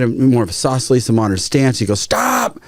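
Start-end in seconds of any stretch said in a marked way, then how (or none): 2.0-2.6 high-pitched yelped command, no real volume; imitated yell. Director halts the trainer fixing his grip, imitated yell. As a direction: mimic a director cutting someone off. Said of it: "James Cameron's yelling at me".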